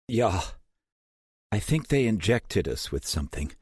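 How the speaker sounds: put-on high, pained German accent; groggy German hacker cursing. A narrator's reading.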